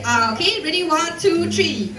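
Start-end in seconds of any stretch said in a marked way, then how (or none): 0.0-0.3 ah demo. Shown as a demonstration. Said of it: "Just say".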